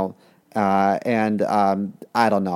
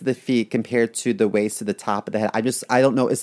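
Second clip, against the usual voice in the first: mock picky buyer. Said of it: "I'd be like".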